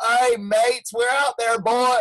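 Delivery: mock Australian accent sliding into Southern; badly faked Australian surfer-speak. Mocking a surfer back from Australia, bad Australian accent. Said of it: "goes to Australia and then comes back like".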